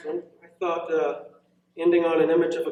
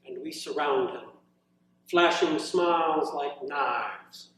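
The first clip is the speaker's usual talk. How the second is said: measured, deliberate poem reading with long pauses; poetry reading. Acted. Poet reading his own poem to a room of students, measured reading voice. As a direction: let each image land as you read it.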